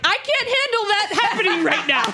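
high mock-tearful wail; overwhelmed, whiny sob voice, hammed up; crying. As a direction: imitate a meltdown through laughter.

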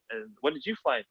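lightly put-on New York accent; Paula Scher. Designer asks visitor about the flight, imitated New York accent. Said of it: "That accent is amazing".

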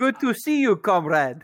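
high, loud mock Russian accent; fake Russian accent. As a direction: imitate a badly dubbed Russian comrade. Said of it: "they're putting on a fake Russian accent".

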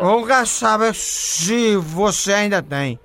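put-on slow, dragged drunken slur. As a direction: play a sloppy drunk caller. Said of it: "o bebo rei desmantelado".

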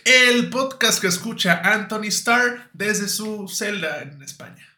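slow, loud announcer read; mock radio host welcome; podcast announcer intro. Shown as a demonstration. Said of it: "Cuando digamos".

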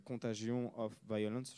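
"Contagion of Violence" said with French sounds and no English accent; French pronunciation. Shown as a demonstration. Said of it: "je le prononce sans l'accent parce qu'il est horrible mon accent anglais".

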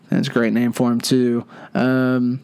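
ordinary talk

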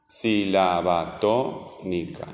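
"Sílaba tónica" very slow, leaning on SÍ and TÓ; exaggerated stressed syllables. Shown as a demonstration. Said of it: "Es la sílaba que suena más fuerte". ("Sílaba tónica" lento, marcando SÍ y TÓ)

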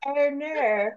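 imitated Australian "Arnar"; Australian accent. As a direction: copy the exaggerated Australian vowels. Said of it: "as good as your Australian accent".

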